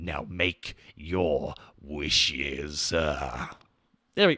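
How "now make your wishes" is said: put-on sinister genie voice, lower and quieter. Doing an impression of Andrew Divinoff as the Wishmaster for chat: Andrew Divinoff as the Wishmaster. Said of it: "that's my impression of Andrew Divinoff".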